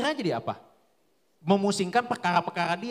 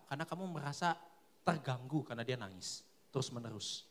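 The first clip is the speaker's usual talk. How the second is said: God speaking softly; 7 semitones lower, 7 dB quieter than usual. Retold or imitated. God gently correcting Bram, low and soft. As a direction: lower and much softer, a gentle correcting voice. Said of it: "Tuhan ngomong gini".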